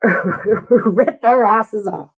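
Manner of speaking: slow, laughing through every word. Real, not acted. Host laughing as viewers vote to drop players. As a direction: giggle it out, amused at the harshness.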